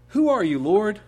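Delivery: high, loud cry from the ground; stunned plea shouted from the dust; startled cry. Acted. Paul falls, cries out.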